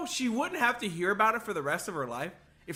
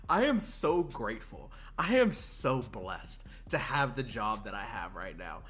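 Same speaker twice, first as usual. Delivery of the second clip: solemn gratitude; 10 semitones lower, 5 dB quieter than usual. Real, not acted. Mock-solemn gratitude amid hysterics.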